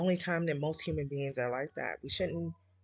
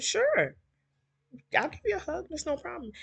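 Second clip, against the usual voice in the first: retold friendly agreement; 11 semitones higher than usual. Retelling her agreeing to a hug.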